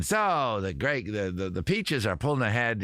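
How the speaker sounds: lightly voiced ballpark radio announcer; a rough go at a radio voice; booth announcer impression. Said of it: "trying to do an impression of his voice".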